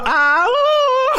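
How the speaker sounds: high loud ah ooh; release shout. Shown as a demonstration. Advising stressed workers to shout, loud and high. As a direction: let it all out in the restroom. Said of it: "go to the restroom and go".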